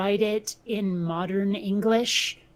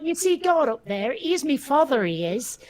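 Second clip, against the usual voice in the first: put-on jokey improvised Cockney accent; rough comic stab at a Cockney accent; mock Cockney accent; 3 semitones higher than usual. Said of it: "there's even a Cockney version".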